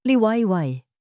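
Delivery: serious call. A narrator's reading. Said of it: "seryosong tawag ni Lino".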